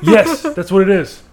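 eager, pleased confirmation; excited. Real, not acted. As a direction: say it like you finally got it.

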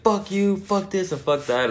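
mock cursing out. Friend cursing out the guys at the party, mock cursing. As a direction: imitate a friend swearing them off. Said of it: "like, cursing them out".

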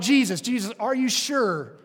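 anxious pleading. Pretend. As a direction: beg for reassurance, hopes barely held. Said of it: "I'd been like".

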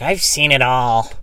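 slow, drawn-out know-it-all; mock-wise laundromat guy; lightly voiced jaded old-timer; slow world-weary guy. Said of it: "he looks at me, and he's like".

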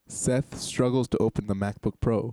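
slow, measured narrator read; scene narration. Acted. Host setting the scene for two improvisers, slow narration. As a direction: narrate the action deliberately, slowly.

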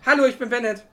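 put-on high, loud little boy voice; child voice. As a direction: chirp it like a small boy. Voicing the little boy Bennett.

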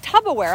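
mock his Tupperware as tubberware; imitating Tupperware said wrong. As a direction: mimic friend's odd Tupperware. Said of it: "And he's like".

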